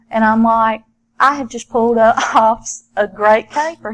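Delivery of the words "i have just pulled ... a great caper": amused. Real, not acted. Amused retelling of own thought.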